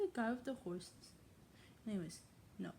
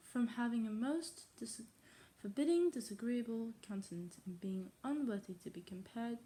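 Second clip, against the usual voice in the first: put-on reading aloud in a tentative English accent; attempted English accent. Untrained reader trying a classic novel, English accent. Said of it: "how to say that in English accent".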